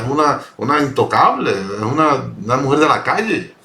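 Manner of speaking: lightly mock the judging religious man; critical Pharisee. Preacher voicing the Pharisee who judges Jesus, lightly scornful. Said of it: "lo critica de forma tal como quien dice".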